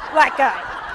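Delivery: a hint of fear, wary and startled; alarmed. Colleague imitating her own wary reaction to the man. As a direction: say it like a mild warning. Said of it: "and I was going".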